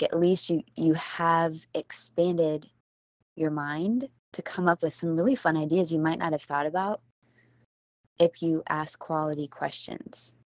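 talking with retainers in; slightly lisped retainer speech; wearing a retainer. Real, not acted. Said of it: "Can you tell I have my retainers in right now?".

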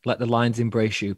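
loud, grand acting-guru line; hammed-up masterclass pronouncement; mock thespian. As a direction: declaim it like a pompous drama coach.

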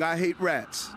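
ordinary delivery

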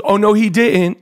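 light sassy talk-show host imitation, only slightly voiced; a hint of a sassy host reacting; Wendy Williams. Host reacting to the guest's curse joke, lightly imitated sass. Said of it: "You know how she talks".

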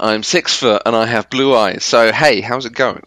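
bright put-on podcast intro; mock cheery host greeting. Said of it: "I'm the English one".

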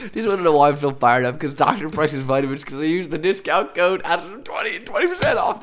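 real amped-up excitement climbing in pitch; fired up. Real, not acted. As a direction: rattle it out, all fired up. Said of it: "why I'm so freaking fired up".

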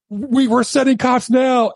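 high, drawn-out mock scream; imitated screaming operator. Emergency operator to caller, imitated screaming. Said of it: "nine one one operator screaming".

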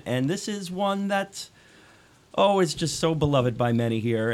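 dry mock enthusiasm; sarcastic. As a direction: fake praise, tongue in cheek. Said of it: "my sarcasm there in the intro".

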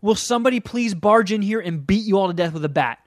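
loud, pleading, high-pitched rant at the screen; mock-furious plea; exasperated rant. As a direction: beg the movie to end, fed up. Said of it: "I was infuriated".

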